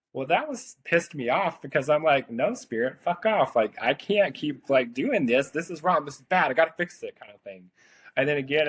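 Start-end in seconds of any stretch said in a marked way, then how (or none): 0.1-2.3 irritated. Retold or imitated. Angry retort to spirit. 2.3-7.2 high, exasperated protest at spirit; pissed-off retort. Retold or imitated. Snapping back at spirit, exasperated and pitched high.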